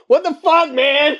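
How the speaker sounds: high yelled outburst, laughing; mock yell. Imagined guy yelling in the library, laughing. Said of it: "quiet conversation ... yelling".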